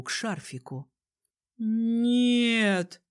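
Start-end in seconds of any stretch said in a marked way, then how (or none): 1.6-3.0 sharp cry of horror; shout. A narrator's reading. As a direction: yell it as you recoil. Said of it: "закричал Антон".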